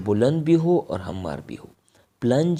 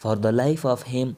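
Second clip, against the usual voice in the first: slow pronunciation; much slower than usual. Shown as a demonstration. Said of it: "teacher pronounces headword".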